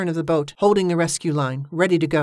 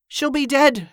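urgent protest; 9 semitones higher, 4 dB louder, slower than usual. A narrator's reading. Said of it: "said Danny".

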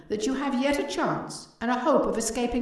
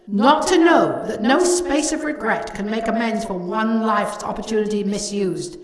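ghostly lament; 6 dB louder than usual. A narrator's reading. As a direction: wail it like a tormented spirit. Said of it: "cried the ghost".

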